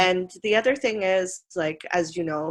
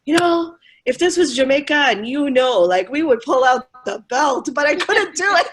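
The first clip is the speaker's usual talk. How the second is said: lightly voiced father; 7 semitones higher, 6 dB louder than usual. Jamaican father quoted.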